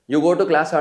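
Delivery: loud, class-ఆ with an added "aa"; Telugu-style question. Retold or imitated. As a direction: tack a long "aa" onto class-ఆ. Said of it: "మరి అక్కడ ఏమంటారు".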